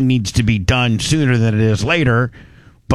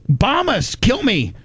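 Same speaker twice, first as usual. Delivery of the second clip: mock zealot; 7 semitones higher than usual. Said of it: "They're like".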